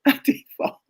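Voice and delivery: whispered sheepish confession; whispered admission. Retold or imitated. Husband admitting the fall, whispered. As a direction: admit it under your breath.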